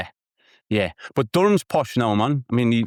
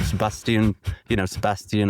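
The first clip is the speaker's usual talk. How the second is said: posh Geordie. Shown as a demonstration. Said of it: "posh Geordie".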